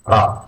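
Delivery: RA with a rolled Spanish or Italian R. Shown as a demonstration. Teacher showing learners the letter, RA with rolled R. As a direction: roll the R at the start of RA. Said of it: "a rolled R".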